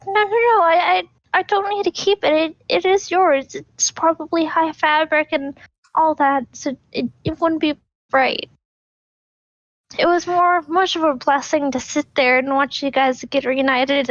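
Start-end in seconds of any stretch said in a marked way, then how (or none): 0.0-8.5 lightly voiced, flustered young woman refusing a gift; gently flustered character voice, higher; flustered Elora. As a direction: politely turn it down, a little flustered and higher. Player voices Elora declining gift.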